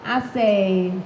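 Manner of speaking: put-on first person, a Harlem teenager telling her own story; Precious's voice. Reading the novel aloud.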